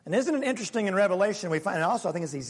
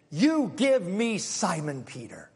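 menacing Satan; slower than usual. Acted. Satan's demand voiced.

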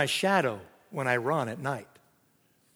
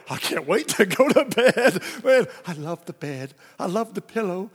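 mock delight; 2 semitones higher than usual. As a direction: ham up the adult love of sleep. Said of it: "Now we go".

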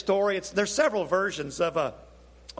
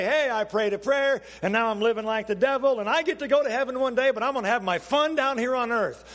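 lightly voiced boastful sinner, pitched higher; a hint of a cocky churchgoer bragging; lightly mocking a believer who lives as he likes; mock careless believer; 5 semitones higher than usual. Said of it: "we just say".

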